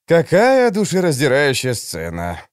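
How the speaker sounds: normal talking voice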